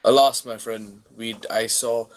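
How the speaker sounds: slow, grave, grand; the adventurer solemnly tells the stranger no woman was found; solemn hero voice. Acted. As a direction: deliver bad news like a lofty knight. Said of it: "character reply".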